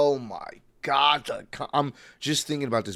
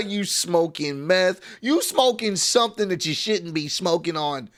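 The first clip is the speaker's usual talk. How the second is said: laughing; 6 semitones higher than usual. Real, not acted. Mocking the match critics.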